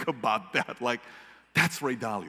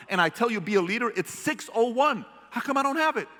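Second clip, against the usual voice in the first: stern boss; 6 semitones higher than usual. Retold or imitated. Leader confronting late employee, stern and heated. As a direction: hold the employee to his word. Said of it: "But I'm saying".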